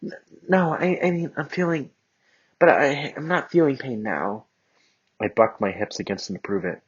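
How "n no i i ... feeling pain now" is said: high, stumbling hurried reassurance; girl stammering to comfort Bakugo; flustered. Acted. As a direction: rush to reassure him. She hurriedly reassures him.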